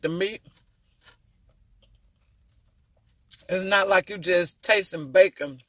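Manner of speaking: eating between words; slightly muffled chewing speech; while chewing food. Real, not acted. Seen 3: holds quail piece, jaw working between words, bites again at end.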